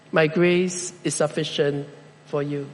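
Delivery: fading soft and tender; soft voice of God. Pretend. Preacher voicing God to the isolated, soft and fading. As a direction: let it fade to near silence.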